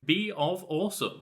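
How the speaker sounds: shouted. Acted. Repeated name, shouted.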